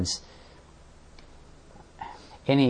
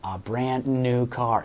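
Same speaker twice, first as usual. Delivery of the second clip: mock quote; 5 dB louder, slower than usual. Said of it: "Like we're saying".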